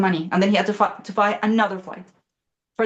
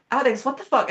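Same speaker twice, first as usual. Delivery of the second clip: retold alarmed disbelief; 6 semitones higher than usual. Wife watching husband cancel his flight, alarmed. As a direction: act out mild alarm, pitched up.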